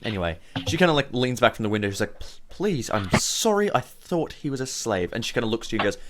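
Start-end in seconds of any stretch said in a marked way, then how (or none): 2.2-5.1 higher, halting, pleading apology; apologetic villager. Acted. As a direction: plead gently as a cowed villager. Frightened villager apologising to party.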